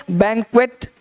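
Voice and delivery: बैंक्वेट with a clear closing T; model pronunciation. Shown as a demonstration. Teacher asks students to try it, clearly pronounced T. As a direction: model बैंक्वेट, sounding the last T. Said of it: "बोल के देखो".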